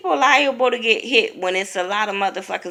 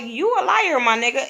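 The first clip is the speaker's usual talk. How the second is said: pitched up high, calling her a liar; Brandy calling out; 7 semitones higher than usual. Retold or imitated. Brandy telling Megan she's a liar, high and blunt.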